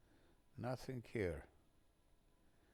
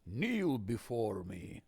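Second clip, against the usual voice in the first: megalomaniac rant; 3 dB louder, slower than usual. Pretend. Commanding villain line.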